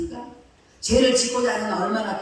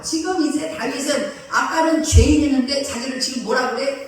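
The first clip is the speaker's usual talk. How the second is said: ordinary delivery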